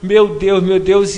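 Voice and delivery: staged desperate pleading near tears; acted panic. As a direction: beg like a terrified man caught out. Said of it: "E fiz aquela encenação ... como se fosse apavorado".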